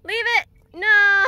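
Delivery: sharp loud high commands to the dog; stern shouted command. Real, not acted. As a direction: bark the order at the dog. Commanding dog away from toy.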